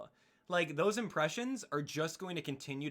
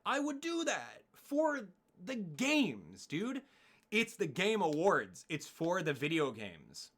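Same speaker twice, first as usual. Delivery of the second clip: pleading the case with heat; passionate rant; 3 semitones higher, slower than usual. Real, not acted. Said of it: "why am I even getting passionate".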